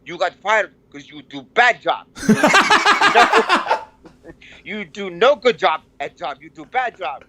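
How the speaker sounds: mock scolding in broken English, laughing; telling her off bluntly; lightly accented scolding husband. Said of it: "And he's like".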